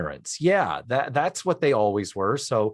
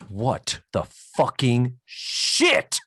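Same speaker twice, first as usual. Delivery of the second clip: slow, drawn-out outraged curse; Andy's outburst; much slower than usual. Retold or imitated. Andy reacting to the basket insult, slow stunned outrage. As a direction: stretch each word out in disbelief.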